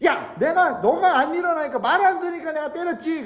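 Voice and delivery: high, hurried mock scolding; scolding Balaam. Balaam justifies the beating to his donkey, scolding. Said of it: "당나귀랑 대화를 하기 시작합니다".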